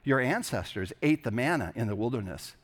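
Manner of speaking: measured, reverent reading of the gospel; scripture reading. Acted. Pastor reading John six to the congregation, reverent and measured. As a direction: read the passage to the congregation with weight. Reads the gospel passage aloud.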